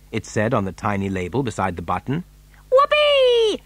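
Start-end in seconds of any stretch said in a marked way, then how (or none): 2.7-3.6 very high, whooping cheer; excited shout. A narrator's reading. Mike spotting television chocolate, shouting with glee. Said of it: "shouted Mike T V".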